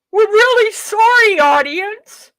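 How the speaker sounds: mocking the morning show host; mock presenter apology. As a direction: ham up a presenter's faux outrage. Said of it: "instead of this faux outrage".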